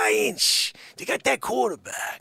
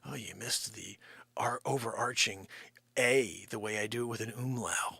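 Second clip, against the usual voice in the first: mocking whisper; 10 semitones lower, 9 dB quieter than usual. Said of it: "She's so critical".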